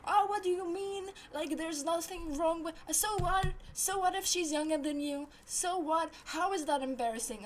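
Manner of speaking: mildly hammed-up comeback; retold lashing out. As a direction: imitate him lashing back. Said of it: "he actually lashed out on me".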